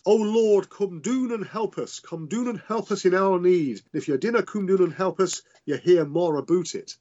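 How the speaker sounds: a hammed-up Scottish preacher's plea to the Lord, in a mock Scots accent; Grierson's Scots accent. A historian mimics a Scottish general praying, in a rough Scottish accent. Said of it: "I really can't do the accent".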